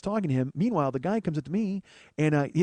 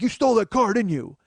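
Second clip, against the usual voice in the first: angry cop; 7 semitones higher, 5 dB louder than usual. Retold or imitated. Cop shoving his face.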